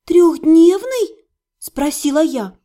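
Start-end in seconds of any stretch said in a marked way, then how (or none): 0.0-1.3 stunned, slow and loud; ошеломлённо, медленно и громко; shocked. A narrator's reading. Шок от новости.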